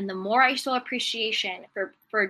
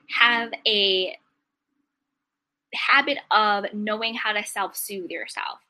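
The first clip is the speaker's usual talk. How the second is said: whisper. Acted. Soothing advice.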